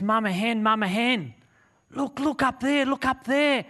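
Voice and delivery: put-on high-pitched, eager child-like creature calling its mother; excited eaglet. Baby eaglet calling mama hen to look up, excited. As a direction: squeal it, bursting to show her. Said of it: "it gets so excited".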